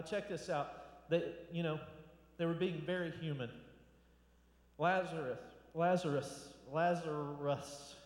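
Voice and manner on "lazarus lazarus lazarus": "Lazarus" tried out repeatedly, last one slowly drawn out; struggling to pronounce. Real, not acted. Preacher tripping over the name Lazarus, careful repeated attempts. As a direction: work at saying "Lazarus", slowing right down on the final try. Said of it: "I have a hard time saying that".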